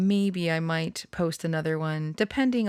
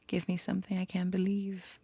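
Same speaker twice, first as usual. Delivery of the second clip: whispered lyric; 7 dB quieter than usual. Shown as a demonstration. Repeats lyric under her breath.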